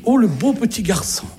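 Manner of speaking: mimicked lady gushing over a little one; lady cooing. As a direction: coo slowly as if at a small child. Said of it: "il y a une dame qui s'apprêtait".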